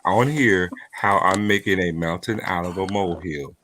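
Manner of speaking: flat deadpan monotone; level, emotionless challenge. Pretend. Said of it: "continue to talk like this in my monotone".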